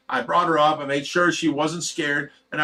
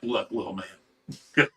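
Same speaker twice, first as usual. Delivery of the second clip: condescending put-down; 7 semitones lower, 7 dB quieter, much slower than usual. Retold or imitated. To the smaller man who threatened him, a low slow belittling drawl. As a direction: lower and very slow, talking down. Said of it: "I'm like".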